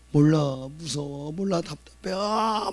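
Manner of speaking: high, mock whimpering of a frightened boy; frustrated child. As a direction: voice the son's helpless distress. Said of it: "막 그러는 거예요". (답답해하는 아이의 높은 칭얼거림 흉내)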